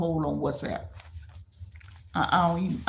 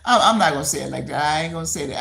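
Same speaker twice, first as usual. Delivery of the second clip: louder and fast, through a laugh; 6 dB louder, faster than usual. Real, not acted. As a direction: refuse it while laughing. Laughing while refusing.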